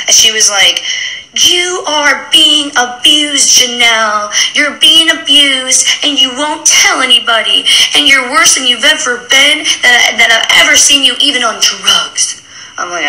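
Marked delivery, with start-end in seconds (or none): 1.3-12.4 imitating mom. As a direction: draw out the lecture like a worried mother. Imitating her mom's lecture.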